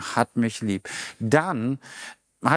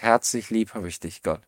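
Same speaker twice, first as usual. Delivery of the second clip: softer, intimate declaration to God; soft heartfelt prayer; tender prayer; 4 semitones lower, 4 dB quieter than usual. Pretend. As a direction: say it softly like a real prayer. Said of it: "Wann hast du das letzte Mal gesagt".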